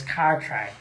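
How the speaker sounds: "Cartwright" with an American r; American accent. Shown as a demonstration. Host showing the tour crew how Americans say it, American accent. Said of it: "imagine you're saying it like an American".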